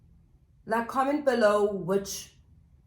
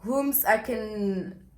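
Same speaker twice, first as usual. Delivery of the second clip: mock scheming; 3 dB louder, slower than usual. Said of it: "being like".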